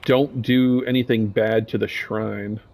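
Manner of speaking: slow, forced-out words; slow strained groan. Acted. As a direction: force each word out slowly, groaning. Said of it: "groans and slowly forces out some words".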